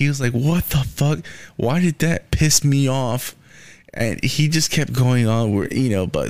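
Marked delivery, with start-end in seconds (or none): 0.3-3.4 angry, fed-up, furious, worked-up rant. Retelling how he went on a rant: imitating an angry rant. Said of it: "so goes on a fucking rant".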